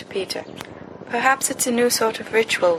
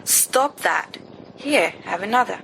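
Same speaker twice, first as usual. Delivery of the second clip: admonishing. Acted.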